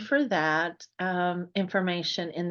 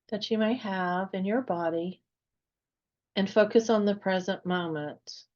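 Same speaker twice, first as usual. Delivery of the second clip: unhurried meditation guide, long pauses between phrases; guided meditation. Real, not acted. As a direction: gently lead listeners into relaxation, phrase by phrase.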